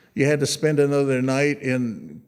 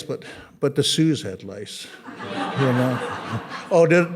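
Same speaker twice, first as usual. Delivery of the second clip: laughing apology; 2 semitones lower than usual. Real, not acted. Joking about Sioux, laughing.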